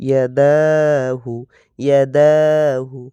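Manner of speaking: ইয়াদাহু with the middle দা stretched one alif long; ইয়াদাহু: quick ইয়া, long দা, quick হু; long middle vowel. Shown as a demonstration. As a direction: draw out দা in ইয়াদাহু, keep ইয়া and হু short. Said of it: "মাঝখানেটা এক আলিফ টানিয়ে পড়বো".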